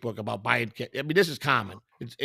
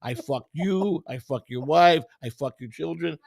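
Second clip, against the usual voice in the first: mock Indian accent. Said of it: "You went to a wannabe Indian voice".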